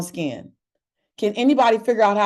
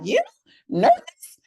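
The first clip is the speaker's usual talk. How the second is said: incredulous "you nervous?". Retold or imitated. Friends doubting she's ever nervous, high incredulous squeak. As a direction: jump way up high on "nervous?", disbelieving. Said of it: "They're like".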